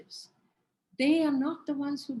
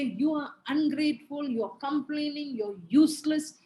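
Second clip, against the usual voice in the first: scolding parent. Shown as a demonstration. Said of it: "Don't say".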